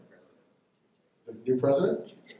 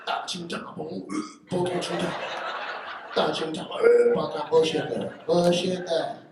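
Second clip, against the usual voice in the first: higher, louder mock-Asian gibberish bickering; mock gibberish argument; 4 semitones higher, 6 dB louder, slower than usual. Salon women arguing over who takes his feet, mock-Asian gibberish. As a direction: squabble in fake Asian syllables.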